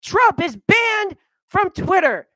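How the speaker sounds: high, loud gloating cheer; Aunt Venom's gloating cheer hammed up; mock glee. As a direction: cheer it like a smug victory. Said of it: "is like".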